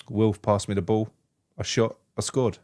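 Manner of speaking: understated imitation of a terse footballer; mock uninterested interviewee, pausing between phrases; man of few words. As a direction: give a minimal answer in separate short bits. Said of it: "talk about a man of few words".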